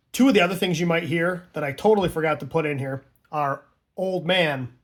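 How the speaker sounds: normal talking voice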